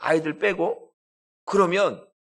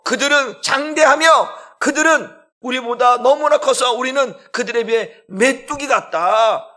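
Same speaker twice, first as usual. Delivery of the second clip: lightly acted panic; 5 semitones higher, 5 dB louder than usual. Acts spies' fearful report.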